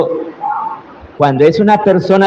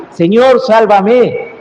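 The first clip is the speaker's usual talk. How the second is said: demonstrated cry to God; 4 semitones higher, slower than usual. Shown as a demonstration. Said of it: "y gritarle".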